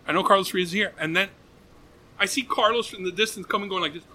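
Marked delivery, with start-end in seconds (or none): 0.1-0.9 retold announcement to find someone; calling over mic. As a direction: call out for a missing person, a bit louder. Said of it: "I'm on the mic".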